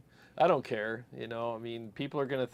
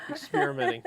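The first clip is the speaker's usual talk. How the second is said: much higher, playful squeak; squeaky tease; 4 dB louder than usual. Acted. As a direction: squeak it teasingly. Squeaky teasing.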